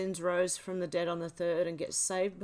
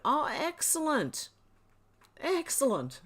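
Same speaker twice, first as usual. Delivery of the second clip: higher, slow, gushing praise; delighted; 7 semitones higher, slower than usual. Real, not acted. Praising Timmy for buying pancakes, gushing delight. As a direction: savour the word with glee.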